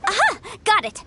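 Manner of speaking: high, bright-idea "aha"; sudden realization. Acted. Legal advisor thinking of a jewelsmith contact, sudden realization. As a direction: pitch jumps up as the answer clicks.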